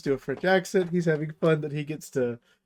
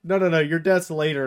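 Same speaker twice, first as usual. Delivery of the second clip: louder, insistent brush-off; hasty mock reassurance; 3 semitones higher, 5 dB louder than usual. Ghosts putting off Gotrek's death, insistent mock reassurance. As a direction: wave off the complaint loudly. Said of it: "They're like".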